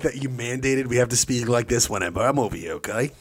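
Northeastern mixed with Australian, drifting at the end; mashup accent. Acted. Son complaining to his mother in a Northeastern-Australian mashup. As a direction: slide from East Coast into Australian. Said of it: "you got real weird with that accent at the end".

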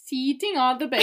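foreign-accented "seating", lightly voiced; mock accent with long "ee"; Borat impression. Actor teases the misreading, Borat-like accent.

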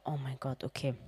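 breathless whisper; whispered oh my god. Retold or imitated. Reacting to the clinic opening late, whispered. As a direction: mouth it in disbelief. Stunned at Turkish time.

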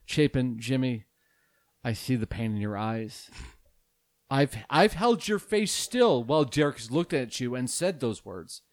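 a hint of a grave public apology, played for laughs; mock solemn apology. Host addresses seven listeners in a hushed mock-solemn apology. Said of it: "this is a special message to our listeners".

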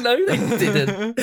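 high, slow laughing disbelief; shocked disbelief. Retold or imitated. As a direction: gasp it out through laughter. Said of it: "I was like".

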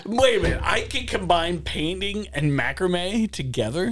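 high, amazed realization; surprised. Real, not acted. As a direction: sound genuinely surprised. Sudden discovery.

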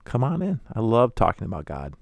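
high, gushing mock host; hyper-religious host gushing about God, eager. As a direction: push the welcome further. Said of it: "they'll be".

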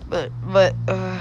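understated flustered shout; mild shout. A narrator's reading. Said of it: "shouted Marshall".

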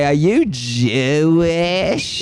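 high, very slow, wavering put-on voice; mock nosy questioner. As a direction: drag out the question like a whiny old man. Repeating the character question.

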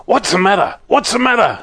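put-on high, fussy old fellow just woken up; sleepy old man's voice. Mister What's-his-name just woken, asks in a high fussy voice. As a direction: squeak out the question twice, still half asleep.

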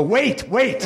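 high breathy wait wait; mock dirty talk. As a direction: tease it like bedroom talk. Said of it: "dirty talk when you go".

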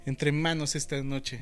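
slow, hushed and seductive; sensual voice. Pretend. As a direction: purr the question to the co-host. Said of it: "Con esa voz sensual".

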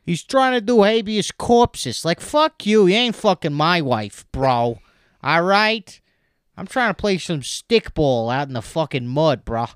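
high, loud bro rant; ranting peasant bro. Pretend.

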